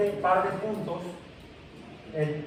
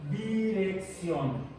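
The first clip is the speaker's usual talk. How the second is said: dirección drawn out slowly, syllable by syllable; slow dictation of dirección; slow spelling-out; much slower than usual. Shown as a demonstration. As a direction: stretch out dirección so the accent on the O is heard. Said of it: "Con acento, con tilde en la O".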